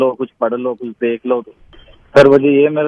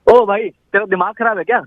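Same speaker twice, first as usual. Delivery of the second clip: higher-pitched irritated outburst; annoyed scolding tone; 7 semitones higher than usual. Real, not acted. Customer fed up with broken Wi-Fi, annoyed scolding. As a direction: scold in exasperation. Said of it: "sir tone देखिए आप अपनी".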